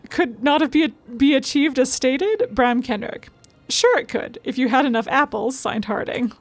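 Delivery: expressive, articulate reading; note read aloud. Acted. Streamer reading a baffled note to viewers, lightly acted read-aloud. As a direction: read the written query out with lively emphasis.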